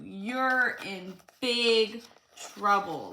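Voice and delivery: slow teasing little sister voice; sing-song taunt. Acted. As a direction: gloat slowly over his trouble.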